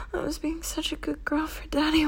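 hushed wounded plea; whisper. Acted. Pleading submissive roleplay.

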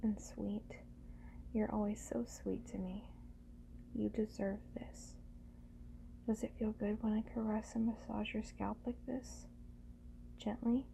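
normal talking voice

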